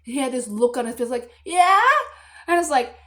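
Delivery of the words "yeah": put-on a touch of a kid's reply. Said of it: "He's like".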